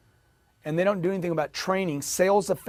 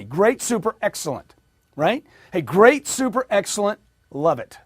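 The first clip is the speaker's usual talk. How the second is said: a few cheerful words, lightly pepped; upbeat drill demo; 3 semitones higher, 3 dB louder than usual. Shown as a demonstration. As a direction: model the positive words for the room. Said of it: "Just repeat after me".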